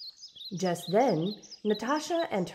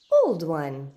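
cheerful greeting; 5 dB louder than usual. Acted. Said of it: "Natasha greeted her cheerfully".

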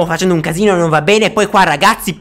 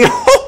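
very high laughing squeal; shrieking laugh. Real, not acted.

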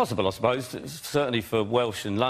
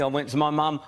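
ordinary talk, nothing marked

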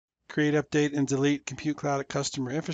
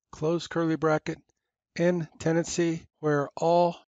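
dictating. Shown as a demonstration. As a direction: spell out each symbol carefully. Reads out a policy statement.

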